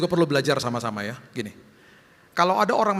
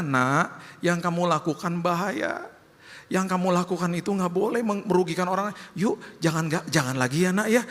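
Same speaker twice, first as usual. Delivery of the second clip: tender; 2 semitones higher than usual. Retold or imitated. God gently correcting his child.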